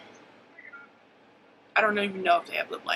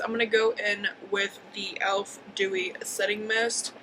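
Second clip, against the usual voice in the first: talking with the hiccups; hiccuping between words. Real, not acted. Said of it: "I have the hiccups".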